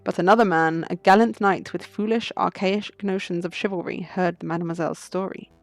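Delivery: measured tale in a lightly voiced French character; French prisoner storyteller. Prisoner telling a veiled story of a debt, measured storytelling.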